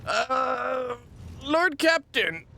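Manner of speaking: high, slow deferential voice; high character voice. Acted. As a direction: address the captain as a meek servant.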